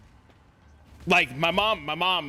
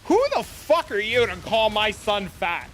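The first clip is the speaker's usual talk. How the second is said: mom's outburst; 4 semitones higher, 3 dB louder than usual. Retold or imitated. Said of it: "She goes".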